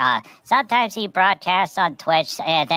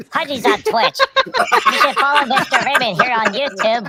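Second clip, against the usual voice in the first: excited plug; 7 semitones higher, 4 dB louder than usual. Real, not acted. Plugging the channel.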